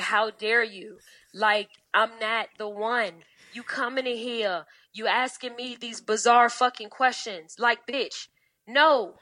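reading her down. Retold or imitated. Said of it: "I read her down to the floor".

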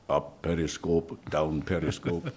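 slow, hammed-up German accent; badly faked German, drawn out slowly; mock German accent. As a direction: imitate a bluffing actor's German accent. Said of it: "give me, uh, thirty seconds of German".

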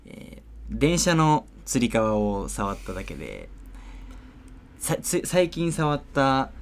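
落ち着いた、かしこまったアナウンサー口調; 夜のニュース番組を仕切るように読む; ニュースキャスター. Acted. ニュース番組の司会をする. (ニュース番組の司会として、キャスター口調で)

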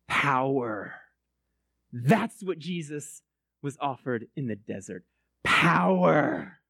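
retelling Ben's fervent point; Ben's intense rant. Retold or imitated. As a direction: preach it like a man possessed. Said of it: "he says".

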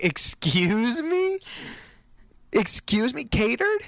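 rising, incredulous excuse me, catered soaring up; indignant disbelief. Retold or imitated. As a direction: retell the shock, voice climbing high on catered. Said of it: "And I was like".

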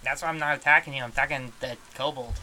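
crocodile with a rough attempt at Australian; attempted Australian accent. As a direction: attempt Australian, fairly loud. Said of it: "I can't do an Australian accent".

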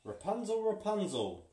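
high, loud witch calling up. Acted. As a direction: call up the tower like a witch. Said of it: "called the witch".

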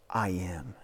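soft unvoiced whisper; God answering the worrier, whispered. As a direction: breathe it like a secret. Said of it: "And God says".

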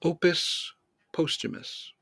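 Posthumus said POHST-huh-mus, musing; long o Posthumus. Shown as a demonstration. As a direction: try Posthumus again with a long o. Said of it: "which one's a better rhyme?".

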